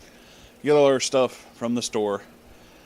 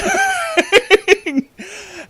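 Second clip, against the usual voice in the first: high squealing burst of laughter; real laugh; 4 dB louder than usual. Real, not acted. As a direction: crack up at the memory. Cop's deadpan reaction cracks her up.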